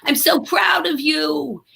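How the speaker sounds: a hint of a grand old dame's fondness; gushing elderly actress. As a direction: gush proudly, stretching the last words. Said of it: "she was immediately like".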